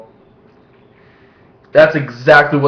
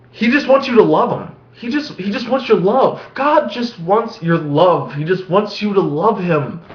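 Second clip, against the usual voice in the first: a hint of a high, whiny preacher; mock preacher pleading; 5 semitones higher than usual. Vlogger voices the televangelist's message, lightly whiny. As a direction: parody a needy sermon. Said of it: "the televangelist pretty much just stated".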